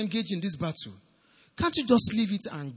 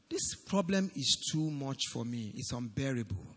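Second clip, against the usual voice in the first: soft, low, lightly voiced defeated complaint; mock a worn-out believer, quietly; mild imitated despair; 7 semitones lower, 7 dB quieter than usual. Preacher mimicking a discouraged believer, soft and weary. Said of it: "Are you saying something like".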